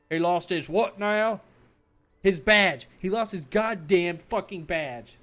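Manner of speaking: loud slow jeering voice; mocking shout. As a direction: jeer at the super cop. Colleagues mocking officer.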